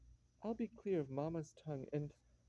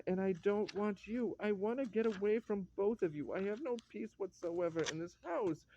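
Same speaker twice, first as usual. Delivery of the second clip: raised, frustrated complaint; exasperated outburst; 4 semitones higher than usual. Acted. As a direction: let pent-up frustration spill out. Husband bursts out at wife.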